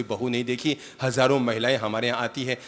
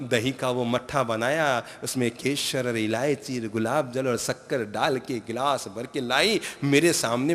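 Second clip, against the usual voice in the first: ordinary talk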